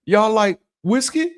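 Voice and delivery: high, slow imitated lady's question; lady offering drinks. Lady shows guests her liquor, mock enticing offer.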